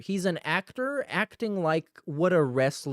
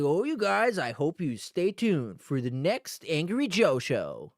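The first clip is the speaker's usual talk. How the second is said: hint of a sleazy salesman host, pitched up on oh; gushing fake entertainer pitch; used car salesman voice. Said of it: "used car salesman voice, the entertainer voice".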